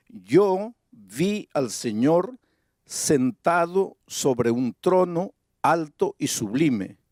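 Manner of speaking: slow, solemn reading of the verse; scripture reading. Acted. Preacher reads Isaiah to the congregation, solemn. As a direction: let "yo vi al Señor" unfold slowly.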